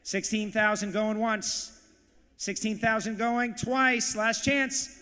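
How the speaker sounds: slow, drawn-out going-once call; final auction warning. Real, not acted. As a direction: hold the bidders in suspense, stretching it out.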